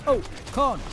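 high, loud mock awe; silly amazed yelp; goofy exclamation. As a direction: cry out over the corn.

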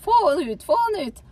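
high, loud shriek; possessed woman screaming. Retold or imitated. Possessed woman screaming at the visitor to get out. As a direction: scream it at her, frantic. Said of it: "og skriker til meg".

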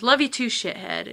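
mildly mocking, imitated fond comeback; sarcastic affection. Friend answers a goodbye on the phone, sarcastic. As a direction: toss the endearment back with light sarcasm. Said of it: "we always said it kind of sarcastic".

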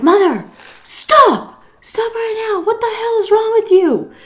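high-pitched exasperated telling-off; acted-out high scolding; imitated scolding son. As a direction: mimic a son ordering his mother to stop. Son scolding his drunk mother, retold.

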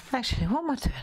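whispered aside to herself. Real, not acted. Crafter whispering to herself mid-drawing. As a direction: breathe it out, half to yourself.

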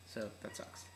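slightly odd speech around new braces; talking with braces. Real, not acted. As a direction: speak around a mouthful of braces. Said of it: "if you hear me talking kinda weird, it's 'cause I got braces".

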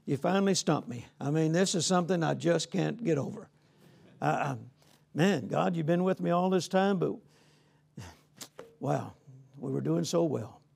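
a touch of acted disappointment, sinking away; mock defeat. Acts out a stumped, defeated speaker.

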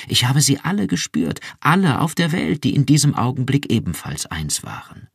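viel höher und lauter, schwärmend; ekstatisch. Acted. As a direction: sich in Begeisterung steigern. (Iran schwärmt Rick ekstatisch vom Mitgefühl vor)

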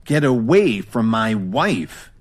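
growl. Acted. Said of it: "Kevin growled at him".

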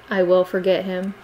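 a niece submitting, even and humble; humble promise. Acted. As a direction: repeat it meekly, no push. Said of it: "in obedience".

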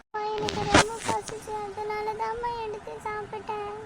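put-on tearful child's wail to mum; put-on sob in the voice; mock crying. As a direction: whine your excuse as if crying. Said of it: "உடனே அழாத".

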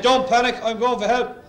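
loud mock-heroic captain; panicky captain. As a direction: blurt it out loud like a panicking pilot. Crane driver captain in crisis.

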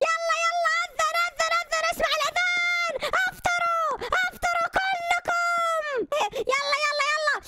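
a high, eager call, stretching the last words; excited announcing. Pretend. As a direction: tell everyone to break the fast. The call to prayer sounds. (إعلان متحمس بصوت عالٍ لوقت الإفطار)

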